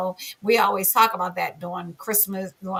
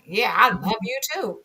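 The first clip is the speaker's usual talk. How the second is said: mock-affection with attitude; insincere, sarcastic reply. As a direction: say it like you don't like them. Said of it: "You know, it's attitude".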